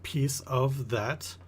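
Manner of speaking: lightly pompous, stretching the last words; deliberate merchant. Acted. Merchant explains his cut.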